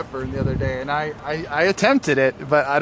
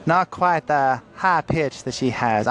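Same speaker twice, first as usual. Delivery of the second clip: attempted mid-Atlantic accent, a little off. Shown as a demonstration. Narrator attempting Katharine Hepburn on request, in a shaky-attempt mid-Atlantic accent. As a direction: try a mid-Atlantic accent that drifts toward Southern belle. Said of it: "just a kind of mid-Atlantic accent".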